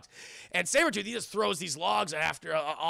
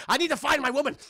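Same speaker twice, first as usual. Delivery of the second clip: raised, louder creepy mock voice; creepy sniffing man; 6 semitones higher, 5 dB louder, much faster than usual. Imitating Hugh Jackman smelling out his woman, creepy. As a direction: play up the creepiness. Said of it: "It's creepy when you do that".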